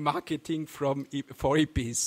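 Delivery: tripping over the title as "Marketing from E-, for Hippies"; a garbled first try at the name "Marketing from E-, for Hippies"; stumbling slip. Real, not acted. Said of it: "Sorry, Marketing for Hippies".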